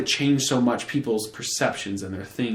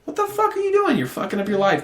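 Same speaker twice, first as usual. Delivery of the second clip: parental yelling; 10 semitones higher than usual. Retold or imitated. Older brother scolding his little brother like a dad, high yelling. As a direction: bark it like a fed-up dad catching his kid.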